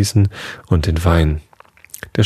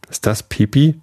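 Karl trumpets it out, high and teasing; trumpeted; 7 semitones higher than usual. A narrator's reading. Karl teasing Dodo through the door, trumpeting. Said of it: "trompetet Karl".

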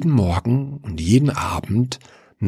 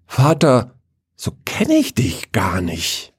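amazed; 5 semitones higher than usual. Acted. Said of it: "staunte Paul".

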